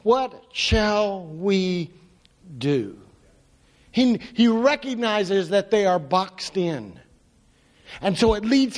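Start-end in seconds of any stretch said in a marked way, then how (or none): 0.0-3.0 imitating frightened servant.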